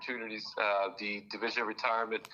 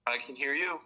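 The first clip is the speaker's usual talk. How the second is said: tinny phone-line sound; phone speaker; 3 semitones higher than usual. Real, not acted. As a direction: voice through a speakerphone. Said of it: "Can we put you on speakerphone?".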